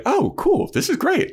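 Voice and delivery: high, squeaky mock Buffy. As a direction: pitch way up like a chirpy girl.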